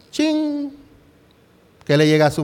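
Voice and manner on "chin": high, long-held ringing "ching"; imitated chime. Shown as a demonstration. Preacher mimicking a thought landing in the mind, high drawn-out chime. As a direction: sing out a ding like a bell.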